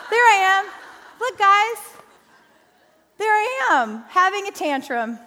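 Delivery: laughing, high and loud. Real, not acted. Showing the church her zoo tantrum picture, laughing loudly. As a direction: laugh through it at your own photo.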